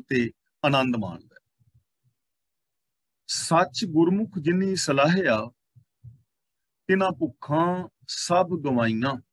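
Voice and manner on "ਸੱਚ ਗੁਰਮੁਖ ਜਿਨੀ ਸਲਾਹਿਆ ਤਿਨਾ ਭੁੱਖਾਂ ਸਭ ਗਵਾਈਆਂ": slow, measured reading of sacred verse; slow, deliberate scriptural reading; scripture recitation. Real, not acted. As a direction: draw out each word of the verse. Reads scripture line aloud.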